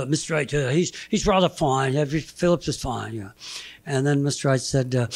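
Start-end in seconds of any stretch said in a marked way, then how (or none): 0.0-3.1 fake Boston accent. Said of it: "he had a fake Boston accent".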